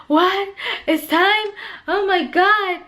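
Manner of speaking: high, startled re-enactment; retold shock. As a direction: act out sudden disbelief at the news. Retold shock at being told to push.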